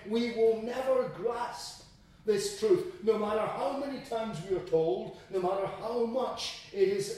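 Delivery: earnest, insistent preaching; emphatic preaching. Acted. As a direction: press the point on the congregation. Preaching at full force.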